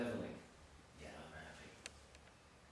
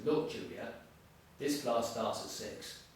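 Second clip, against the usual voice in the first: firm and direct, slow on the last words; aggressive leveling. Shown as a demonstration. Teacher levels with a student, mildly aggressive. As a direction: set the student straight, no nonsense. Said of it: "I can level with you aggressively".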